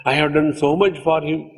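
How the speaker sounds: high-pitched martyred-mother grievance; imitated complaining. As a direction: plead all you have done, voice climbing. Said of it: "and then we complain".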